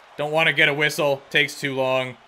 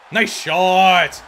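excited cheer; 3 semitones higher, 5 dB louder than usual. Real, not acted. Celebrating a goal.

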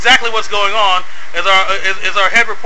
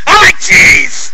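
slow simple-minded voice; 8 semitones higher, 4 dB louder, much slower than usual. Pretend. Odd interviewee voice.

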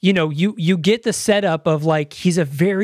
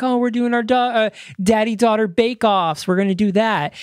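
higher-pitched, light imitation of family chatter; imitating doting dad; 4 semitones higher than usual. Host voicing dad and daughter planning bake-offs, lightly doting. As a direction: lightly act out a cosy daddy-daughter plan. Voices father and daughter's cozy plans.

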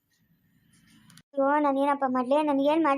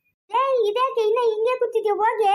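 scolding; 5 semitones higher than usual. Acted. Scolding someone for still sitting.

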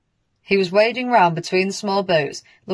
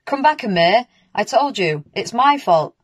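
shouting; 4 semitones higher than usual. Acted. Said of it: "he shouted".

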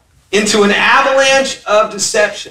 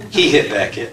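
put-on soft, lower, sheepish little boy with a laugh; small child voice; 8 semitones lower, 4 dB quieter than usual. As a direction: confess it quietly like a caught kid. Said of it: "child confessing to grandpa".

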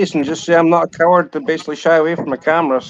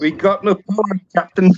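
lightly voiced Scotty, a bit higher; Scotty from Star Trek; 4 semitones higher than usual. Asked by chat to say it, a hint of Scotty. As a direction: toss off a Scotty line, half in jest. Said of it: "Say, say it".

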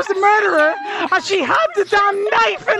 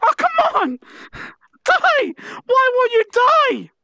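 higher, exasperated shouts; frustrated yelling; 5 semitones higher than usual. Real, not acted. Player raging at an enemy that won't die, exasperated yelling. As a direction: rage at the thing that won't die.

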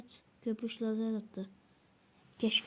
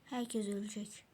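ominous whisper; 7 dB quieter than usual. Pretend. Ominous threat while playing.

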